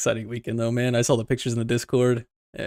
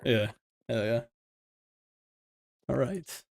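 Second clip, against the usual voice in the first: breathy whispered all right; 6 dB quieter, slower than usual. Real, not acted. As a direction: whisper it so the mic barely catches it. Quiet cue before recording starts.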